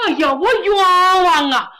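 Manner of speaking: tearful, loud cry of injustice; sobbing plea to the generals; wailing protest. A narrator's reading. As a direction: wail it like a man about to be executed. Condemned man crying injustice.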